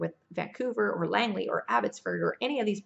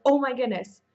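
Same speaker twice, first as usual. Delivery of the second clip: surprised; 3 semitones higher, 5 dB louder than usual. Retold or imitated. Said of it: "And we're like".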